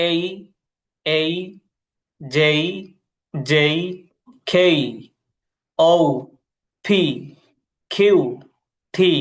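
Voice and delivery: each letter name said slowly, with pauses; teacher running the letter drill again. Shown as a demonstration. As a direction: spell out every letter clearly. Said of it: "দেখেন".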